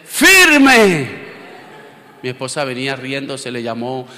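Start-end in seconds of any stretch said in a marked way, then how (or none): 0.0-1.3 daughter's cheer. Retold or imitated. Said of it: "lo primero que hace".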